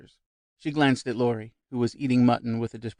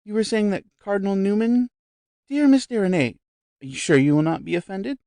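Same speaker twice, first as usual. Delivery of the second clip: high, eager society lady; lightly voiced effusive visitor; bright chatty lady at dinner; gushing guest; 8 semitones higher, 5 dB louder than usual. A narrator's reading. Guest coy.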